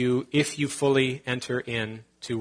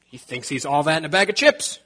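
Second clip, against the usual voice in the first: mock gossiping churchgoer. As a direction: play a catty, offended churchgoer. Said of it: "we're not gonna be like".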